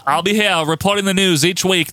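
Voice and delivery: mock newsreader in a shaky New Zealand accent; badly faked New Zealand accent. Host quoting Butch in the newsroom, bad New Zealand accent. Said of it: "That's not a good accent".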